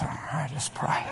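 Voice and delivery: slow mock prayer whisper; whispered, drawn-out imitation; hushed praying. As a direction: murmur as if lost in prayer. Imitates girls absorbed in praying.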